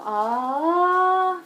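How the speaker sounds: high ah. Shown as a demonstration. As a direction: slide the ah up high. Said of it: "you're gonna go".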